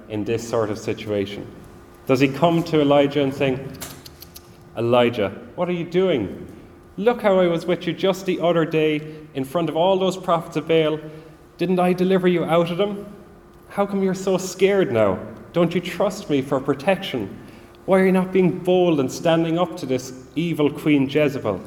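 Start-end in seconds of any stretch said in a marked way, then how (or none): 4.8-6.5 raised, sharp scolding of a scared prophet; God imagined scolding Elijah, stern and raised; stern rebuke. Pretend. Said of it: "he doesn't come to Elijah like that". 7.0-21.6 stern rebuke. Pretend. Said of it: "he doesn't come to Elijah like that".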